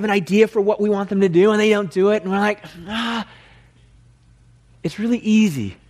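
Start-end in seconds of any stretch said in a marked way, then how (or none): 2.9-3.3 high, drawn-out exasperated "ah"; mock cry of frustration; frustrated groan. Preacher acts out people let down, exasperated cry.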